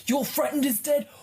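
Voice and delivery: high frantic panicked yelling; panicked shout. Acted. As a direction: shriek it in horror.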